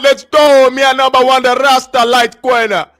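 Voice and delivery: loud put-on Jamaican patois; Jamaican accent. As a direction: hype it up in fake Jamaican. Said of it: "that doesn't sound Jamaican no more".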